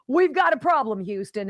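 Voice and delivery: city officials mock-crying emergency; mock alarm. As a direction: announce it like a space mission crisis.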